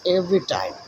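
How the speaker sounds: slow, each word spaced out; slow story reading. Shown as a demonstration. Teacher reads the story line to the class. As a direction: read the line slowly for pupils. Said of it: "তাই টি বড় হাতের হবে".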